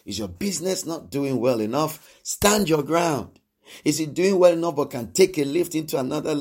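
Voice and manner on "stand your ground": very slow, every word weighed; slow emphatic command. Real, not acted. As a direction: lay each word down slowly and firmly. Preaching exhortation to congregation.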